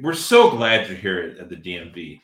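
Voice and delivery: lightly voiced ring announcer; mock announcer greeting customers; a hint of announcer showmanship; Howard Finkel. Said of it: "talk to you as Howard Finkel".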